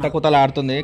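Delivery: కుత కుతలాడుతుంది with k and t, softly spoken; కుత కుతలాడుతుంది with a k on each kuta; correct kuta-kuta. Shown as a demonstration. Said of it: "correct వినాలే వాళ్ళు".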